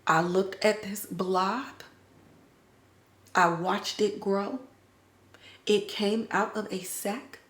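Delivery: quiet, slow, shaken account; hushed recounting. Retold or imitated. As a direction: tell it slowly like you can't believe it. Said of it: "Boyd's like".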